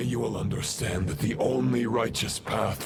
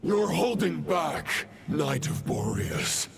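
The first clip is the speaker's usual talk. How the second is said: stern challenge; 5 semitones higher than usual. Acted. Possessed knight taunts in the duel.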